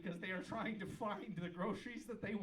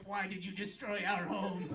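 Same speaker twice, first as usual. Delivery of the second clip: gnome father; 5 dB louder than usual. Pretend. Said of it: "The father gnome confronts you, like".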